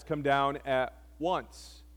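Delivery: slow, quiet and haughty demand; condescending order. Shown as a demonstration. Second captain ordering Elijah down, slow and condescending. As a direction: lean down on "Come down at once" slowly, looking down on him. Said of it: "He's being even worse than the first dude".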